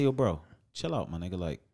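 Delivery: code-switched street talk; African American accent. Retold or imitated. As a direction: drop into street talk to calm him. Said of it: "'cause I code switched on him".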